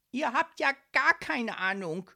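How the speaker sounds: loud, high exasperated shout; yelling. A narrator's reading. Ghost shouting at his two friends, exasperated yell. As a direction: yell that they don't understand. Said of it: "schrie Leopold".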